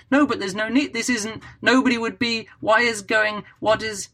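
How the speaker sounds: high, exasperated disbelief; incredulous reader. Retold or imitated. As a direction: sputter like a reader who can't buy the plot. Imagined reader rejecting the plot.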